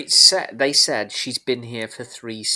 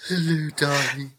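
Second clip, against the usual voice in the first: breathy voice; 3 semitones higher than usual. Acted. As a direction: breathe out the words. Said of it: "more and more breathy with every episode".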